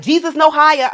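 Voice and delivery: high, insistent New York call; put-on New York accent. Shown as a demonstration. Kids calling turns at double dutch, New York accent. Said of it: "give you my, um, New York accent".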